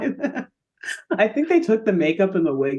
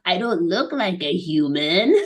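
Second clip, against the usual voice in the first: little alien voice. Acted. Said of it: "in his little alien voice".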